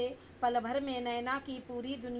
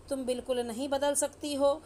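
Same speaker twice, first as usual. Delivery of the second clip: louder, rising to a curt order at the end; angry; 4 dB louder than usual. Acted. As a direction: scold the wife, then cut the call. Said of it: "गुस्से में". (गुस्से में पत्नी को डाँटते हुए)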